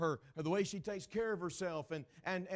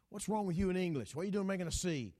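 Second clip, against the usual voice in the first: loud, quick scolding father; scolding dad; 3 semitones higher, 6 dB louder, faster than usual. Retold or imitated. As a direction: snap at the kid. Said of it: "he goes".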